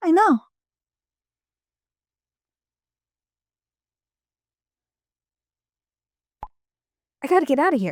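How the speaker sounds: frantic, rushed panic, voice very high. Told to be careful by a sibling, a character answers: panicking. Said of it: "I'm panicking".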